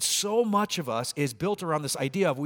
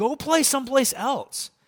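mock upset yell, very high and drawn out; 10 semitones higher, 4 dB louder than usual. Recalling getting upset with the kids, re-enacting own yell at them. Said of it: "getting upset with them and yelling at them".

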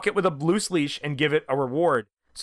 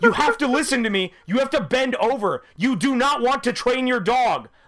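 mock fed-up scolding, high exasperated yell; 9 semitones higher, 3 dB louder than usual. Dog trainer recounting yelling at someone they were training: retelling a yell. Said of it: "I yelled".

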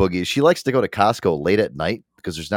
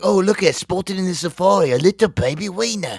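put-on Australian accent, pitched higher; 10 semitones higher than usual. Imitate her new habit of talking like an Australian, in an Australian Steve Irwin voice. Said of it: "She talks like an Australian".

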